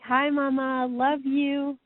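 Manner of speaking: a hint of a son greeting his mother; Eric. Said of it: "Eric's like".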